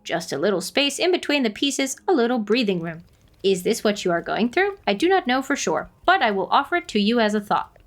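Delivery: put-on measured, kindly old guardian; wise forest spirit. Voices wise forest character.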